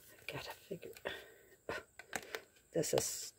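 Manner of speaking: whispered to herself. Real, not acted. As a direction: breathe the words under your breath while fiddling. Muttering to herself opening package.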